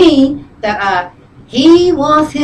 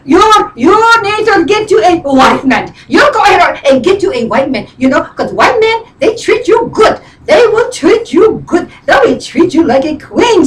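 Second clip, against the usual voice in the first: imitated friend, higher and insistent; friend's voice; 4 semitones higher than usual. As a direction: mimic your friend urging her on. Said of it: "she talks like this".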